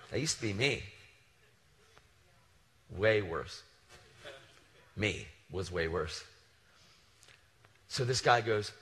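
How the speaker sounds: usual speaking voice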